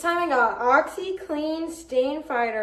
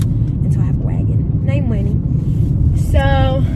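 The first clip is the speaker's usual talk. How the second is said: put-on southern accent; 6 dB louder than usual. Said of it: "I'm just using a southern accent".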